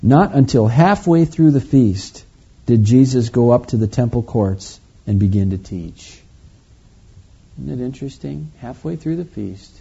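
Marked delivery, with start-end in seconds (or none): 0.0-6.2 projected reading, phrase by phrase; scripture reading. Acted. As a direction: read the verse out clearly to the congregation. Reads scripture to the congregation.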